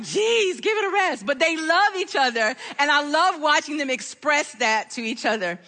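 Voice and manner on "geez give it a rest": mock exasperated. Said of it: "And I'm like".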